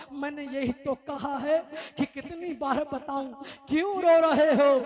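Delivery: loud, impassioned sermon climax; fiery preaching. Acted. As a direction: preach it at full force to the crowd. Preaching rises to full force. (جوشیلی تقریر)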